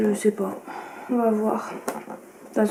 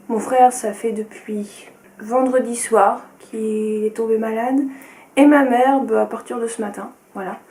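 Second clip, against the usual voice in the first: just-woke-up morning voice; talking in her first-thing morning voice. Real, not acted. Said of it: "ne faites pas attention à ma voix, c'est le matin". (voix du matin)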